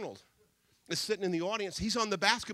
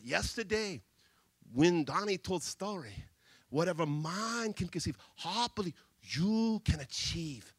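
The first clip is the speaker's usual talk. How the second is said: broken English; 4 semitones lower than usual. Retold or imitated. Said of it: "speaks broken English".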